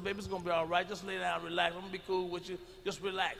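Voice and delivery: reassuring. Retold or imitated. Reassuring date in bed.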